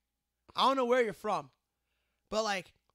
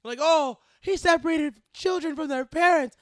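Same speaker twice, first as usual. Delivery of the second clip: higher, louder hammed-up threats through laughter; mock fury breaking into giggles; laughing mock tirade; 6 semitones higher, 6 dB louder than usual. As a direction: rant like a tyrant while cracking up. Comic threat rant, cracking up.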